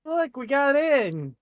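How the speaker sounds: high, slow proud announcement; triumphant. Acted. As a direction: crow about the win.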